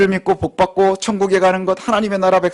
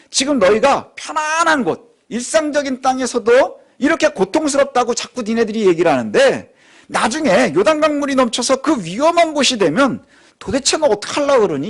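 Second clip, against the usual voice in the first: God rebuking; 5 semitones higher than usual. Acted. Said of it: "이렇게 말씀하는 거예요".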